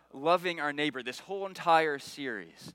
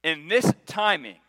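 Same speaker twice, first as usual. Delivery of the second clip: demanding; 4 dB louder than usual. Retold or imitated. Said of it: "we go to God and say".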